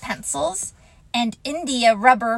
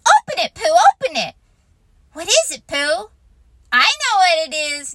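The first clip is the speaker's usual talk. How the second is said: excited chorus; 7 semitones higher, 7 dB louder, faster than usual. Acted. Everyone clamouring.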